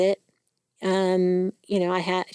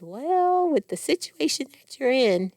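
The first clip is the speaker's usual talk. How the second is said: higher, quick imitation of the doctor's advice; imitating the doctor; 4 semitones higher, 3 dB louder than usual. Patient quoting her oncologist's advice, higher and quick. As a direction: start much higher on "Well", then rattle off the advice. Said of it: "she said".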